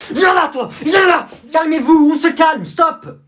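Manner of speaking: high, loud yelling in a brawl; shouting. Acted. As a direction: shout over the chaos.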